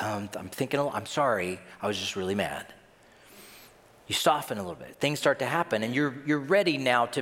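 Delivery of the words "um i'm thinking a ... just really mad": lower, hesitant mock apology; softened apology. Preacher acts out apologizing after an argument, softened. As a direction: back down gently and sheepishly. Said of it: "Do you soften a little bit?".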